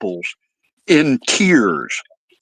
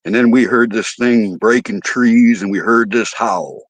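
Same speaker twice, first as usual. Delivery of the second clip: spooked guy; 4 semitones lower than usual. Retold or imitated. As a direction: hush it down like a secret. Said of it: "He says".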